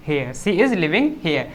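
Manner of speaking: very slow, word by word for the class; slow dictation. Shown as a demonstration. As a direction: spell it out slowly so students can write. Teacher dictating English sentence slowly. (बहुत धीरे, शब्द-दर-शब्द बोलना)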